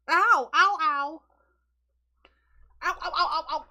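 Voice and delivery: loud laughing ows. Real, not acted. Cat attacking her, loud real ows mixed with laughter. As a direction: yelp through laughter as the cat bites.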